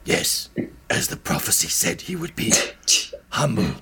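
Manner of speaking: hushed, low-pitched bird sage; old bird. Acted. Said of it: "an old bird in the bottom".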